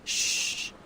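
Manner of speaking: soft hushing shh; shushing. Acted. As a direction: hush them quietly. Hushing a companion.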